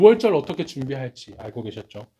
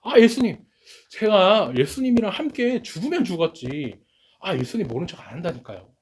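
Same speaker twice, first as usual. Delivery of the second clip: a raised, emphatic vow, retold by the preacher; forceful insistence; 4 semitones higher than usual. Preacher voicing Peter vowing to Jesus, forcefully insisting. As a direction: push the promise out hard, half-acted. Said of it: "야, 강하게 얘기를 합니다".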